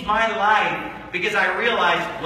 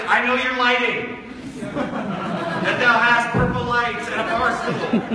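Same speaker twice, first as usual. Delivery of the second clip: mock quote with a laugh; 3 semitones higher, slower than usual.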